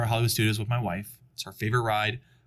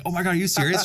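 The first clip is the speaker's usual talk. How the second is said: higher-pitched mock panic; retold freak-out; 7 semitones higher, much faster than usual. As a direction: imitate a rider starting to freak out. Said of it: "they start freaking like".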